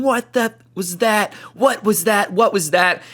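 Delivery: put-on high, shrill-free old lady voice, slowed; mock a startled old neighbor; high-pitched imitation of an old lady; old lady yelling. Old lady yelling from her door.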